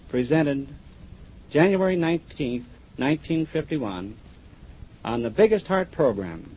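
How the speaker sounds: slow, measured presentation with pauses between phrases; formal certificate reading. Real, not acted. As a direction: read out an award ceremonially, phrase by phrase. Reads certificate aloud.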